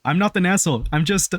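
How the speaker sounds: a hint of an Austrian accent, lightly voiced. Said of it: "Not a bad impersonation".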